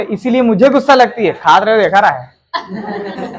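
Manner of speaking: a slow, half-laughing grumble as the friend; mock grumbling friend. Teacher mimics the grumbling friend to the class, slow and laughing. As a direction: drag it out, chuckling through the complaint. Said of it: "तो कहते".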